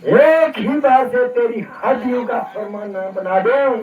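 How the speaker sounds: furious vow. Acted. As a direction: swear to crush him. Parashuram vows to crush him.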